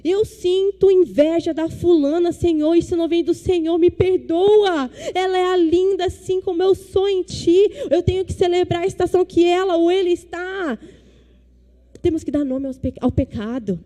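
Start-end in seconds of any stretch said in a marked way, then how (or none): 0.0-10.8 earnest confessing prayer, a bit louder and higher; demonstrated prayer. Shown as a demonstration. Pastor modelling a confession prayer for the congregation, fervent. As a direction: pour it out to God, pleading forgiveness. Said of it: "nós precisamos parar e falar".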